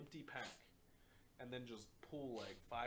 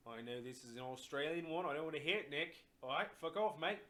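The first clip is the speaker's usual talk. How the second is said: loud mock British accent, higher; hammed-up British bloke telling him off; 4 semitones higher, 8 dB louder than usual. Imitating his UK friend in a loud British accent. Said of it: "he had an accent".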